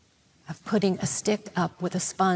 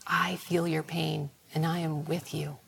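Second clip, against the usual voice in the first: soft, lowered voice of comfort; tender consolation; 3 semitones lower, 5 dB quieter than usual. Retold or imitated. God speaks to those who suffer, soft compassion. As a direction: console someone suffering, very quietly.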